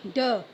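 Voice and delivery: ड set apart as dog's opening consonant sound; letter sound. Shown as a demonstration. Teacher sounding out dog, letter sound. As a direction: say ड as a short "duh". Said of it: "ड भी आपका कौन सा".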